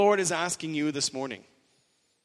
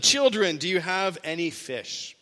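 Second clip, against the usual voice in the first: calling out. Retold or imitated. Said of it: "Then he calls out to them".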